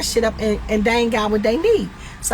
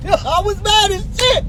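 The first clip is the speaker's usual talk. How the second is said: laughing through the words, pitched up; 9 semitones higher than usual. Real, not acted. Telling viewers how mad she was, laughing. Laughing while retelling anger.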